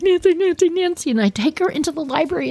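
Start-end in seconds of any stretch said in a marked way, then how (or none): 0.0-1.1 high, pressing calls of her name; urgent high calling. Retold or imitated. Girl frantically pulls her sister aside, high and urgent. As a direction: grab her attention in a panic. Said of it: "and I'm like".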